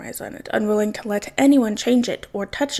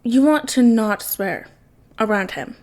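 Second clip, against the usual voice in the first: faux pondering. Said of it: "faux pondering".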